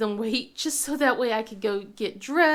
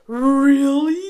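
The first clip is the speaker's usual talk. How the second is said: surprised; 2 semitones higher, 12 dB louder than usual. Retold or imitated. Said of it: "he goes".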